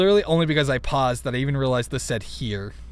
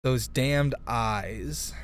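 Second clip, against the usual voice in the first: slow and dramatic; 3 dB quieter, much slower than usual. Shown as a demonstration. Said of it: "the words here that are making it tricky".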